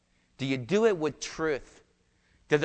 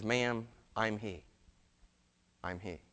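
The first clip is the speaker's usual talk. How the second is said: slow, much softer, fading to almost nothing; hushed reveal; 5 semitones lower, 7 dB quieter, slower than usual. Acted. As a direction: let the second "I'm he" die away softly. Jesus reveals himself to woman.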